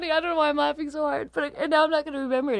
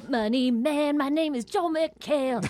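pompous rich guy. Pretend. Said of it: "that sounded just like the problem solver lady".

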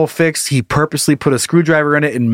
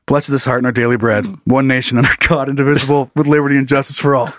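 mock prayer recital; 4 semitones lower than usual. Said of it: "I'd be like".

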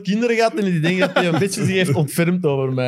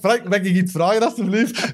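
pitched up, timid polite request; nervous fan plea; 4 semitones higher than usual. Retold or imitated. Starstruck fan begging coach for a favour, timid and high. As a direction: plead shyly, voice rising high. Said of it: "En ik zei eigenlijk".

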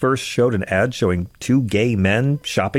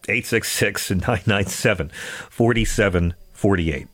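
out of breath. Real, not acted. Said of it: "I'm a little out of breath".

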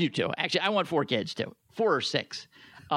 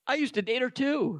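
laughing through it; 8 semitones higher than usual. Acted. Laugh heard on line.

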